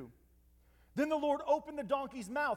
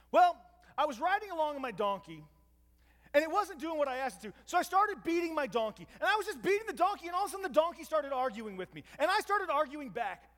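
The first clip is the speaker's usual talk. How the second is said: higher, faster, flustered excuse-making; sheepish Balaam explaining; 5 semitones higher, 3 dB louder than usual. Retold or imitated. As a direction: blurt out an embarrassing excuse. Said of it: "How does Balaam explain".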